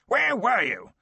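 loud, high furious roar. Acted. Lord roaring at his son after the hunt, furious. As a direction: bellow at the son in rage. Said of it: "he roared".

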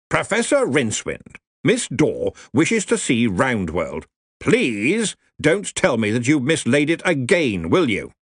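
put-on slow, booming old officer; blustering colonel. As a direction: bluster at a junior. Ridcully addresses Rincewind.

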